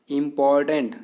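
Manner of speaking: इंपॉर्टेंट measured out as "im-por-tent"; three syllables shown. Shown as a demonstration. Teacher counting syllables for pupils, इंपॉर्टेंट in three clear beats. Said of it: "इसमें तीन हैं".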